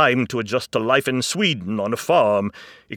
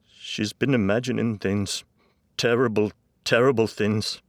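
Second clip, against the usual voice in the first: loud, higher, anguished; tearful dad with raised voice; crying father; 5 semitones higher, 10 dB louder than usual. A narrator's reading. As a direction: push the words out through distress. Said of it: "Dad was still crying".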